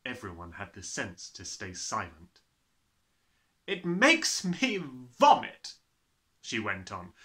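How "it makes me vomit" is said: high, slow, revolted outburst; loud disgust. A narrator's reading. Headmistress telling pupils they sicken her, disgusted. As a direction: draw it out with loud revulsion.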